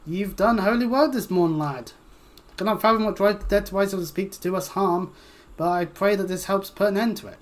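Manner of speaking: lightly voiced old priest, solemn and kindly; a hint of an archaic priest giving thanks; pious old priest. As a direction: bless the lad like a gentle village priest. Reads old priest NPC aloud.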